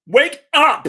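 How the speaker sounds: loud wake-up call; shouting. Real, not acted. Waking dozing friend up.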